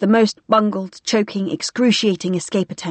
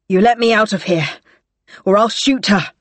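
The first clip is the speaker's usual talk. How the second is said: rasped. Acted. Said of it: "Semelia rasped".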